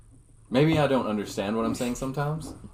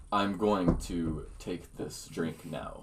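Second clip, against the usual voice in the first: slow, softer, one word at a time; Native American chief voice; 8 semitones lower, 11 dB quieter, slower than usual. Pretend. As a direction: deliver like a solemn tribal elder. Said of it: "you like an Indian accent?".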